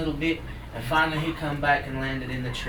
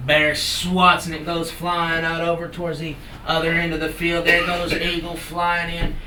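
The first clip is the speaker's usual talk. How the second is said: play-by-play storytelling; 3 semitones higher, 6 dB louder than usual. A narrator's reading. Calls the ball game action.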